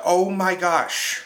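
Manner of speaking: slow, stretched alarmed gasp of words; drawn-out mock alarm; alarmed oh my gosh. Reviewer mimicking the movie's escalating tone, slow.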